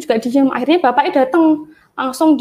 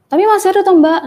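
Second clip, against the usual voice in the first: higher and louder pushy question; a touch of a mocked pushy customer; impatient demand; 7 semitones higher, 7 dB louder, faster than usual. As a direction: press her like an impatient customer. Customer pressing the saleswoman.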